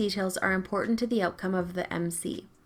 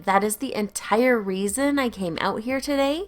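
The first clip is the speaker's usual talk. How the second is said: indignant, drawn-out, slow complaint; a hint of an affronted Karen; outraged entitled customer; 5 dB louder, slower than usual. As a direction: huff and whine like an offended shopper. Entitled customer ranting at cashier.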